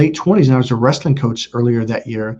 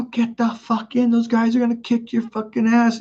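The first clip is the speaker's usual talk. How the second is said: high-pitched, insistent urging; retold urgent warning; 10 semitones higher than usual. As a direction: re-enact pleading with a drunk brother to get in. Urging drunk brother into the car.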